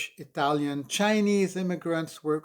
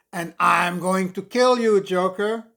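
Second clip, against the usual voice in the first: put-on kid's battle cry; 3 semitones higher, 8 dB louder than usual. Kid playing Batman threatens Joker.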